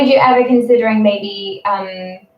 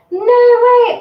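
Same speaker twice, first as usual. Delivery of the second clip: higher and louder, real delighted disbelief; surprised; 14 semitones higher, 7 dB louder than usual. Real, not acted. Host hears a friend's violin fact, surprised. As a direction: burst out in genuine surprise.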